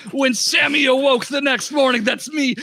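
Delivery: hammed-up Jamaican storytelling; Jamaican accent. Shopkeeper telling the party about the monster, Jamaican accent. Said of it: "Jamaican accent".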